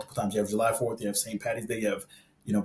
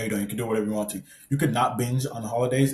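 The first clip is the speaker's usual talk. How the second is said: normal talking voice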